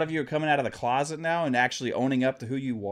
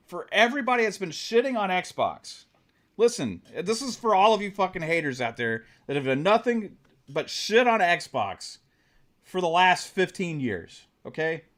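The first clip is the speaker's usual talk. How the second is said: passionate rant; 4 semitones higher than usual. Real, not acted. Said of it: "I'm just talking with passion".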